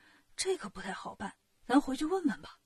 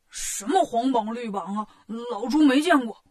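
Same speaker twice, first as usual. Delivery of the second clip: a hint of indignant Pigsy, last phrase louder; lightly voiced Bajie, dismissive; 2 semitones lower, 4 dB louder than usual. Bajie denies seeing the notice to the soldiers, mildly indignant. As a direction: brush them off as a lightly played Bajie.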